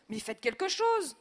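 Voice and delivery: loud, slow pleading yell; desperate shout. A narrator's reading. Wife yelling at the family, desperate shout. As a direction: beg them to act.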